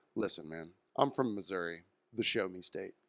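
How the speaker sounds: low, quiet, flat, expressionless deadpan. Telling a story about a man threatened in a fight, retelling his deadpan reply. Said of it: "deadpan, he goes".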